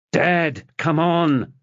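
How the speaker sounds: calling out. Acted. Son calling his dad to hurry.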